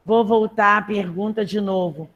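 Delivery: usual speaking voice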